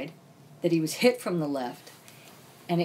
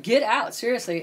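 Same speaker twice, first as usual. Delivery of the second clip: higher, louder insistence; raised-voice retelling of a dismissal; retold insistent order; 4 semitones higher, 4 dB louder than usual. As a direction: insist they leave, voice raised. Repeats order to friend to leave.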